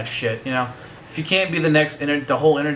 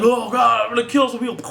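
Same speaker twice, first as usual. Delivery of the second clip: raging Chewbacca; 9 semitones higher than usual. Retold or imitated. Imagining Chewbacca losing it with mock rage. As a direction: ham up the furious Wookiee.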